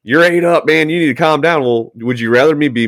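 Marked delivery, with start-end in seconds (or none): 0.0-1.6 mock scold. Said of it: "it's like".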